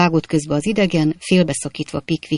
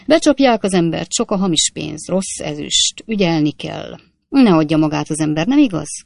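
brisk, choppy braggart voice, louder; boastful Jingle; 3 dB louder than usual. Acted. Stranger brushing off the coachman fight, boastful rattle. Jingle leaves them the bill.

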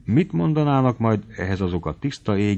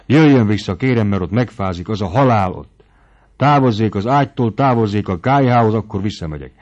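loud, raised commands; commanding; 6 dB louder than usual. Acted. Mari dictates terms to Noszti from the ledge, loud. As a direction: lay down the conditions firmly and loudly.

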